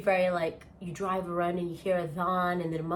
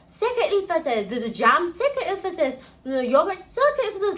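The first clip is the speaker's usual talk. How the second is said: mock Italian; 9 semitones higher, 4 dB louder than usual. Mock-reading the packaging labels.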